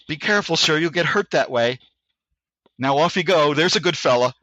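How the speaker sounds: light British officer, calmly menacing; stereotype British accent. Retold or imitated. Sergeant major coolly warning the driver in a light British accent. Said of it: "a stereotype British accent".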